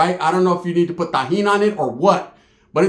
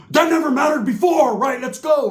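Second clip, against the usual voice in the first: higher eager cousin; 7 semitones higher than usual. Retold or imitated. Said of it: "cousin pushing".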